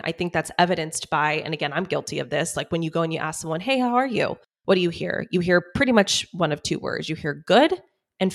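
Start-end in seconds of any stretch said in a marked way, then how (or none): 3.6-4.4 higher-pitched, everyday hello; casual greeting. Acted. 7.5-7.8 high, rising one-word answer; stock polite reply. Acted.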